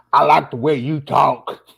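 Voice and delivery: slow, drawn-out Sling Blade impression; Billy Ray Thornton. Host imitating a film character for his guest, slow drawl. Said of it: "I'm gonna act like Billy Ray Thornton".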